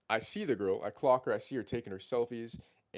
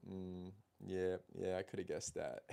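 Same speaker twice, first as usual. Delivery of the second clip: low-key, softer reply with a smile; knowing smile; 3 semitones lower, 7 dB quieter than usual. Retold or imitated. Man to the model who just revealed her job, knowing smile. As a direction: re-enact a quiet, smiling aside. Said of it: "I smile at her and I go".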